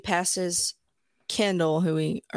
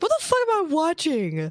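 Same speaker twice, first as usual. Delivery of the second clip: retold disbelief; 9 semitones higher, 3 dB louder than usual. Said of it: "I was like, sitting up in bed".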